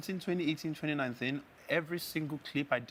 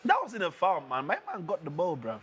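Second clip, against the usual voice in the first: put-on London accent; 3 semitones higher than usual. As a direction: slip into casual London street talk to defend the tackle. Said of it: "You can stop doing the London accent now".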